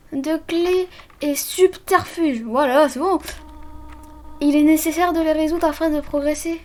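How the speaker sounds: gentle motherly voice. Acted. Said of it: "je vais lui donner une autre voix".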